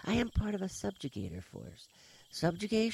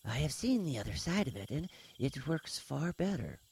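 calm; 10 semitones higher than usual. A narrator's reading. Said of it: "Thriss said calmly".

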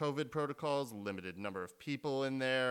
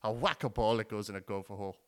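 Robin Williams bit; 5 dB louder than usual. Retold or imitated. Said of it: "God rest Robin Williams".

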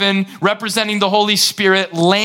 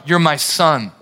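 voice of the Father; 5 semitones lower than usual. Acted. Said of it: "Here's the voice of the Father".

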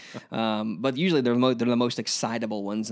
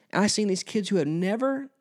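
emotional; 4 semitones higher than usual. Real, not acted. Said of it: "I'm trying not to get emotional".

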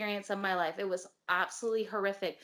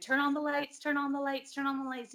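higher-pitched mild mock yell; retold yelling; 5 semitones higher than usual. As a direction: imitate a panicked plea, half-voiced. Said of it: "I was yelling at my boyfriend".

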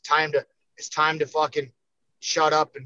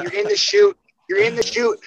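pitched way up and pushed louder; tense excitement; 14 semitones higher, 5 dB louder than usual. Retold or imitated. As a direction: relive the nerves in the chute. Describing the tense wait in chute.

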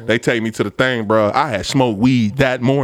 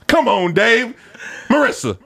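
higher and higher pleading shout; pleading call; 12 semitones higher than usual. Retold or imitated. Fired worker pleading with HR over a dollar thirty-four, rising shout. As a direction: beg them across the office.

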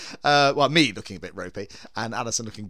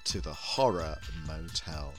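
campy drag queen; 2 semitones lower, 3 dB quieter, slower than usual. Acted. Horror host intro persona.

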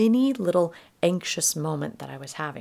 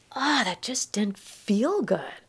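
whispered hurt; 3 semitones higher, slower than usual. Retold or imitated. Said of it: "I was just like".

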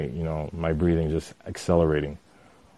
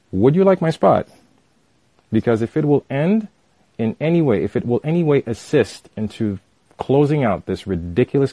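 voice raised a notch; 3 semitones higher than usual. Retold or imitated. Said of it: "I raised my voice just one notch".

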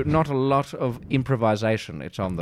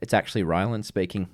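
lisp; 6 semitones lower than usual. Pretend. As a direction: put on a little lisp. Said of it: "I'm just putting on a little lisp".

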